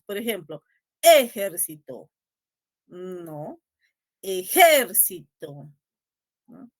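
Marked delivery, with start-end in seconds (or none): 1.0-2.1 "ejército" with a loud, drawn-out initial E; stress on first syllable. Shown as a demonstration. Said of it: "pronuncien las palabras con distintas". 4.2-5.7 "Ejército" slow, with a loud, long JÉR; stress on JÉR. Shown as a demonstration. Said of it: "pronuncien las palabras con distintas".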